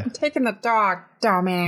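lightly voiced impression; celebrity impression. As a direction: play a tossed-off celebrity insult. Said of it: "Do it".

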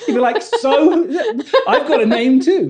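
laughing through the words; giggling while talking. Real, not acted. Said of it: "laughing at the moving take".

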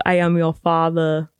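a hint of a deep action-star voice; lightly voiced Austrian muscleman; Arnold Schwarzenegger impression. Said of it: "an Arnold Schwarzenegger impression".

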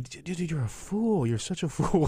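high, laughing mock scolding; laughing at himself. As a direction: laugh through calling him a fool. Retells his own thought, laughing.

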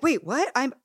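sudden high-pitched double take; confused "wait, what". Retold or imitated. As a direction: thrown off, catching up mid-fight. Caught off guard mid-argument.

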